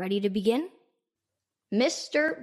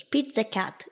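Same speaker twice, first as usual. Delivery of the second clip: imitating grandma's Polish accent; a light Polish accent on the name. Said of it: "in her very Polish accent".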